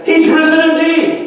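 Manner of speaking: high, ringing shouted response; crowd answering. Retold or imitated. Crowd at the rally shouting the reply. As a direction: answer back like a swelling crowd. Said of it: "fifty or sixty people in the crowd said".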